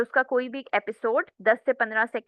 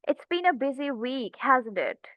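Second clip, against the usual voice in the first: friendly; much slower than usual. Shown as a demonstration. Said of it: "friendly तरीके से मैं उनसे बात करूँ".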